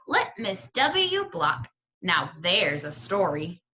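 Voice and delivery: put-on old storyteller. Old librarian starts her family tale, slow and savouring. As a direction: lean back and draw the story out.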